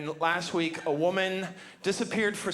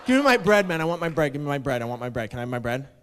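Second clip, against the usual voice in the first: imitated customer; 3 semitones lower, 4 dB louder, faster than usual. Customer asking repeatedly for his money, mock-insistent. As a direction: repeat the demand, winding down to a grumble.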